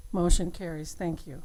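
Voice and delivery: popping mic. Real, not acted. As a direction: hand bumping the microphone. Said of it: "your hand on the mic is popping".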